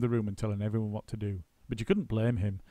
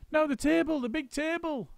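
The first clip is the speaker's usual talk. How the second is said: shout. A narrator's reading. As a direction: point out the next job. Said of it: "shouted Mugglewump".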